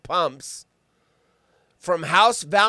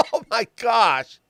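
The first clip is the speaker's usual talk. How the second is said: normal talking voice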